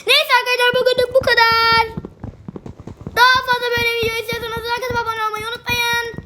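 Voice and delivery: half-sung goofy zombie outro. Pretend. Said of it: "Zombi sesiyle".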